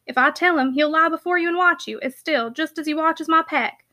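lightly voiced rustic, fondly recommending; a touch of warm-hearted dialect chat; homely country packman. Packman offers his dog to miss, lightly voiced rustic.

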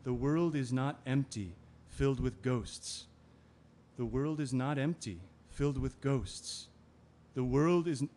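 measured inner refrain, slowing on "filled with ghosts"; looping refrain, cut off mid-word; voice in the head. Acted. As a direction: repeat it evenly like a haunting thought. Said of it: "all I hear in my head is".

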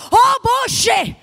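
woman in turbulence crying out in fear; retold frightened cry. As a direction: mimic the passenger's scared outburst. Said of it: "y grita".

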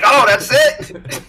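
high, slow letdown at a short sample; mock letdown when the sampler cuts off; deflated surprise. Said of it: "and you're like".

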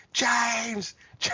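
mock shout across the room; calling out name. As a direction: hail someone from afar.

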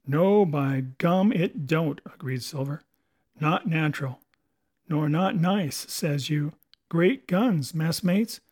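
put-on spook the messmates like an old sea cook; brooding pirate; ominous pirate Silver. Silver muses on Flint.

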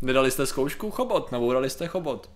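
lightly voiced late-night ad announcer; mock infomercial. Continues mock ad slogan.

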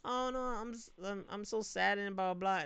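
high, whiny fake sob; mock sad fan. Mocking a woman mourning the Cubs, high fake whine. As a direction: parody her mourning post.

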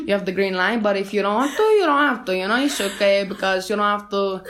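put-on light Cuban-accented third base coach, a bit fast; a hint of a Cuban accent as a chatty base coach; mild Cuban accent. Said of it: "It's more like maybe Cuban".

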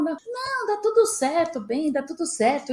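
high, insistent "it'll be fine"; reassuring boss. Retold or imitated. The boss reassuring the hesitant new director. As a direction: brush her worries away brightly.

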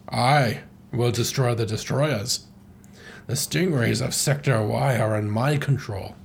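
lightly acted villain monologue; measured, theatrical telling of a grudge; Andros. Villain tells captive his revenge tale, mild theatrical menace.

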